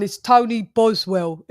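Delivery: put-on slow, drawn-out British accent on the name; a light imitation of a British accent; mock British accent. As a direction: say the name like a proper Brit, slowly. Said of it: "your voice sounds like this".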